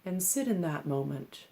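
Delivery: calm, measured meditation instruction with long pauses; unhurried meditation-teacher delivery; guided meditation. Acted. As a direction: guide them gently into stillness, leaving space between phrases. Leads a seated breathing meditation.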